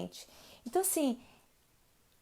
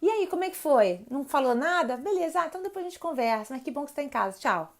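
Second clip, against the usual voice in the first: calm welcome; 3 semitones higher, faster than usual. Shown as a demonstration. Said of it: "sente o alívio e senta pra ouvir".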